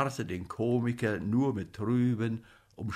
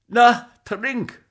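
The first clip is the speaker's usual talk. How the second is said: loud, high command; bossy, encouraging order; urging; 10 semitones higher, 12 dB louder than usual. A narrator's reading. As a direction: push him to drink with a raised voice. Comic orders patient to drink.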